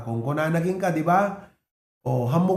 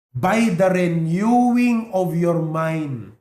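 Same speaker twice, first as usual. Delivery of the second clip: slow and louder, each word weighed; solemn scripture quote; 4 dB louder, slower than usual. Shown as a demonstration. Pastor quoting Romans to the church, slow and loud. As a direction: proclaim the verse slowly. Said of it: "kunano di Romans twelve two".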